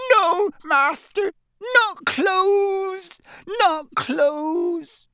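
high, loud pleading elf cry; begging house-elf. A narrator's reading. House-elf begging her master at his feet, desperate. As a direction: beg desperately, flat on the floor.

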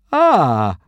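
high, nervous little gasp; a jittery, uneasy "Ah". A narrator's reading. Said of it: "said Fishlegs with a nervous smile".

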